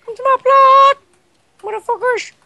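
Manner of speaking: high yell to the whole server; shouting. Real, not acted. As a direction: call everyone over at full voice. Shouting to players.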